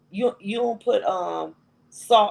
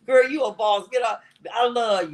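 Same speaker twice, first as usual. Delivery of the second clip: laughing; 5 semitones higher than usual. Real, not acted. Laughing praise.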